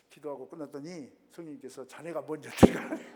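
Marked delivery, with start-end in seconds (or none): 1.9-3.0 loud, laughing as he quotes her. Retold or imitated. Wife's answer relayed with a laugh. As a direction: laugh through the punchline.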